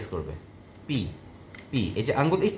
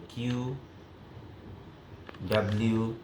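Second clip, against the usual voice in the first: slow typing demo; 3 semitones lower, 7 dB quieter, slower than usual. Shown as a demonstration. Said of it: "এইভাবে slow করুক".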